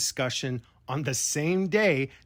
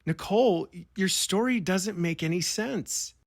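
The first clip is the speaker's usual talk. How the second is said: imagined confrontation; 5 semitones higher than usual. Pretend. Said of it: "if I had been on the call, I would have asked".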